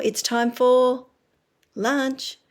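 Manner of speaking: put-on sing-song slow cue to a child; slow, drawn out. Shown as a demonstration. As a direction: stretch each word out for a toddler.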